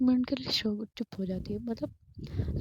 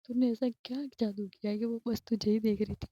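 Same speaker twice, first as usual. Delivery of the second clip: laughing. Retold or imitated. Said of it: "और वो बहुत हंस रही थी".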